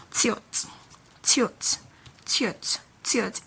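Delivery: tiot said alone as one short word; letter-name demo. Shown as a demonstration. Teacher naming the T consonant for learners, letter-name demo. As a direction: repeat tiot crisply, with pauses between. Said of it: "it is called".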